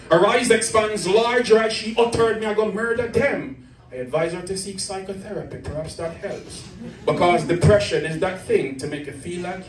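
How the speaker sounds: rhythmic, dramatic poetry recital; spoken word poem. Acted. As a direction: perform it like an open-mic poem.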